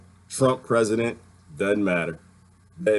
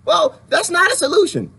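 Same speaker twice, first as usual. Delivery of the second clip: imagined heckler; 5 dB louder than usual. Pretend.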